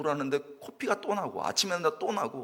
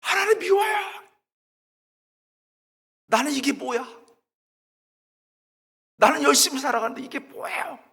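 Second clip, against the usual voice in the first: high, loud protest at God; pent-up outburst; 12 semitones higher, 7 dB louder than usual. Retold or imitated. Student who held it in, protesting to God, angry shouting. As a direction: burst out after holding it in. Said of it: "참다 참다".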